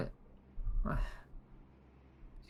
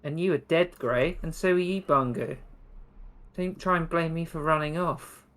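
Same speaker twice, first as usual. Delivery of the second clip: higher-pitched, indignant self-justification; defensive protest; 4 semitones higher than usual. Acted. Sandra answers her companions about running off, defensive. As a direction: push back against the blame.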